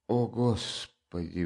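escaped exclamation. A narrator's reading. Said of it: "вырвалось у Сони".

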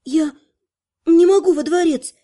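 frightened. Acted. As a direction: blurt it in fear. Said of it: "испуганно сглотнула".

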